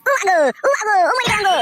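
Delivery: acted cries of pain; pained wail. Getting beaten in the fight, wailing in pain. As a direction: cry out for mother while being hurt.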